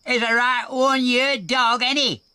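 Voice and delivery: high, loud hearty bellow; bellowing elephant. A narrator's reading. The elephant bellows to Rhubarb about Custard. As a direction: boom it out in good cheer. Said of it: "bellowed the beast".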